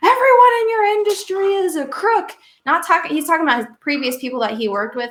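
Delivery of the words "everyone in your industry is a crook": put-on shrill, very high-pitched yelling. Speaker recounting a client who calls daily and yells at him: imitating someone yelling. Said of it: "like yells at me and says".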